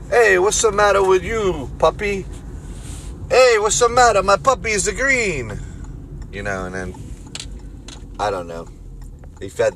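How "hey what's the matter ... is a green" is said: farmer voice. Retold or imitated. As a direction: play the puzzled farmer high-pitched. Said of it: "The farmer said".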